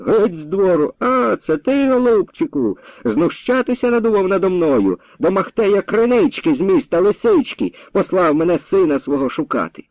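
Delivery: high, heated, driving the intruder off; angry confrontation. A narrator's reading. Nechypir drives the captain from the yard, angrily. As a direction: raise the voice well up and chase him out.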